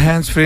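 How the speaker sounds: «hands free» said with an e-like vowel in hands; ιδιαίτερη προφορά. Real, not acted. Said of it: "Όσο το λες έτσι". (ιδιαίτερη προφορά στο «hands free», το hands σαν «χενς»)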